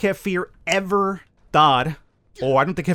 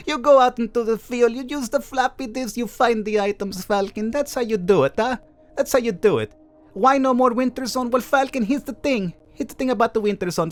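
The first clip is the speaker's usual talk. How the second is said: silly voice; 6 semitones higher than usual. Pretend. Lecturing Falcon about the update in a goofy high voice. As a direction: ham it up in a silly high put-on voice. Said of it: "let me do my voice".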